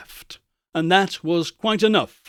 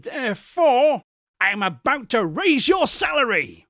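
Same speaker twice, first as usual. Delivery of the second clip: joyful shout; 8 semitones higher than usual. Acted. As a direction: burst out with the good news. Scrooge's joyful reveal to Bob.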